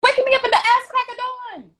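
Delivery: loud, high-pitched outburst at a friend; high, loud playful telling-off; mock-scolding yell. Real, not acted. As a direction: yell it as an exasperated complaint. Scolding friend for waking her.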